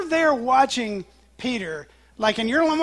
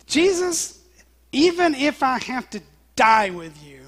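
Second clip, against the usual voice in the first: loud pledge, starting high on the name; emphatic insistence; 4 semitones higher, 7 dB louder than usual. Retold or imitated. Peter swearing loyalty to Jesus' face, emphatically insistent. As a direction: insist forcefully, imitating a vehement disciple. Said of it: "he's just insisted emphatically".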